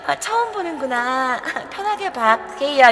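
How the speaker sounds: a hint of a demure girl cooing; mock sweet, gentle coo; gentle innocent woman. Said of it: "청순 가련형 언니가".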